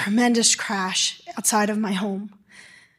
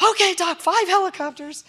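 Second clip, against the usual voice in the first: higher-pitched voice of an obliging dispatcher; imitated dispatcher; 7 semitones higher than usual. Dispatcher answering the doctor's demand, imitated compliance. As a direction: echo the order back, pitched up.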